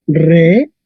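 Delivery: "regina" broken into re, gi, na with long gaps; syllable by syllable. Shown as a demonstration. Teacher shows how the word is read, "regina" split into syllables. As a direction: sound out "regina" one syllable at a time. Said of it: "Se leería".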